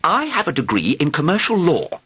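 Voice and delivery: nervous. A narrator's reading. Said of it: "began nervously".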